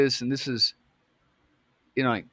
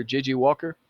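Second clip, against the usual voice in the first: plain reading voice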